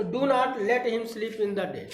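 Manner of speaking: very slow, word by word; slow dictation. Shown as a demonstration. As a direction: dictate it twice for the class. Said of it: "तो".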